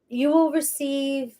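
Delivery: a hint of grand preacher cadence again; lightly hammed-up speech delivery; mock orator. Shown as a demonstration. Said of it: "Somebody was channeling through me".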